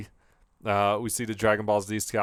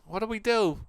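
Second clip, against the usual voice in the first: high, strained squeaky toy voice; toy henchman voice; 10 semitones higher than usual. Acted. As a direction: pinch it up into a little toy.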